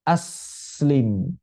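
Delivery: Aslim with the s sound flowing on; s in Aslim fully hissed. Shown as a demonstration. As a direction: let the s in Aslim stream out unbroken. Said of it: "Maka sin rokhawah".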